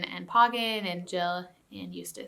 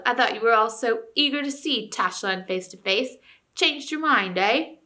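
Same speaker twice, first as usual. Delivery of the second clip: ranting ape; 3 semitones higher, 4 dB louder than usual. Acted. Ape jeering.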